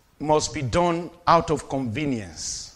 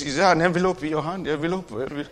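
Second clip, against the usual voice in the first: mock begging pastor; 5 dB quieter, faster than usual. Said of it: "have I ever greeted you and said".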